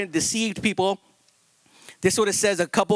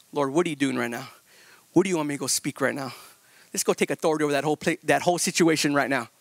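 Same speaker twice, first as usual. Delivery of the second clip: calm secure leader; 6 semitones lower, faster than usual. Retold or imitated. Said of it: "a secure leader".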